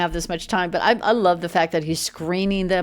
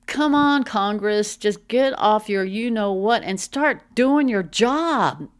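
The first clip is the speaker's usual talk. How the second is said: louder, higher scolding, the last line slow; exasperated scolding; 3 semitones higher, 4 dB louder, slower than usual. Real, not acted. Commentator scolding Congress to get off its behind, louder and fed up.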